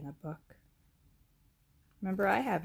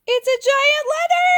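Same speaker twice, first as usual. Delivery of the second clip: high, loud astonished cry; playfully amazed shout for the children; 14 dB louder than usual. Pretend. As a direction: exclaim as if you can't believe it. Reveal of the giant letter.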